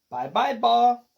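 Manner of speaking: put-on high, loud toddler cry; mild storytime scream in a baby's voice. A narrator's reading. Baby Joshua to his dropped ball, screaming. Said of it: "Baby Joshua screamed".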